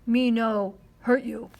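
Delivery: put-on boy faking Indian English to a tiny brave; mock Indian English. A narrator's reading. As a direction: speak slowly in pidgin, placating. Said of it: "in what he supposed was Indian English".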